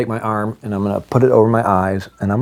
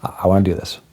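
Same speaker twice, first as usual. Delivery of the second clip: laughing. Retold or imitated. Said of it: "And I laughed a little bit".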